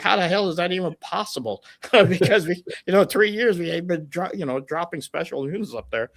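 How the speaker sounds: retold astonishment, voice climbing; incredulous. Allies' amazed reaction retold.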